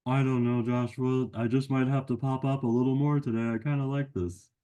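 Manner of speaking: a cheeky friend who butts in; a hint of a goofy puppet buddy; Sammy the sidekick. Sammy refuses to leave.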